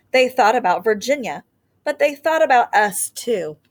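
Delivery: put-on gentle storybook read-aloud for young listeners; teacher reading a picture book to her class; reading to children. A narrator's reading. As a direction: read it like story time on the rug.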